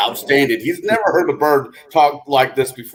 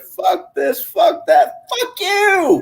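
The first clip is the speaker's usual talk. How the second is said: cussing parakeet; much slower than usual. Acted.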